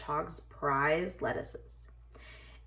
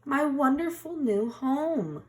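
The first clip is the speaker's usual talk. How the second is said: higher, delighted exclamation; beaming; 8 semitones higher than usual. A narrator's reading. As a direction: beam with joy at the new house. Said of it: "beamed Badger".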